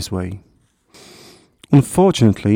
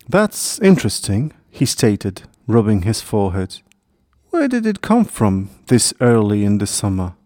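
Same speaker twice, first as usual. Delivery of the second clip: plain reading voice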